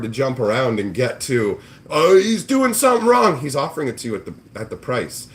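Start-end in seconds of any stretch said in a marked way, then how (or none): 1.9-3.4 mock high voice. Mocking the flipper's logic.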